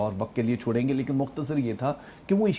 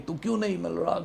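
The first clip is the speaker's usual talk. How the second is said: mild mock cry of longing, pitched up; pleading cry; 5 semitones higher than usual. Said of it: "زور زور سے کہہ رہا ہوں". (ہلکی سی التجا بھری پکار)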